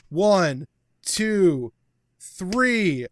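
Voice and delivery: loud, spaced-out referee count; pinfall count. Acted. Referee counts out the pin on a downed wrestler, punched count.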